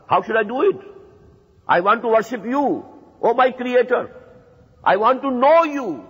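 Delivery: a devoted seeker praying from the heart; yearning plea. Pretend. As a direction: beg sincerely to know and obey the Creator. Voicing the believer's plea to Allah.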